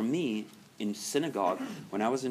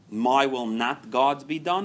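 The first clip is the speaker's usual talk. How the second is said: emphatic wrong way; 2 semitones higher, 6 dB louder, slower than usual. Shown as a demonstration. Contrasting two attitudes.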